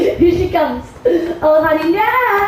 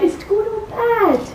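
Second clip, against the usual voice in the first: higher, softer pressing plea; pleading insistence; 4 semitones higher, 3 dB quieter than usual. Acted. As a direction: beg for the answer. Impatient for news, pressing again.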